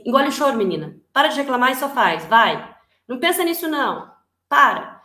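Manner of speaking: put-on loud, sharp parent scolding a crying girl. Parent scolding a crying girl to stop, loud and sharp. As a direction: bark orders at a child to stop crying.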